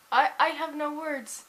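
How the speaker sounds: words squeezed out through laughter; giggling, barely able to speak; laughing helplessly. Real, not acted. Cracking up at own ideas.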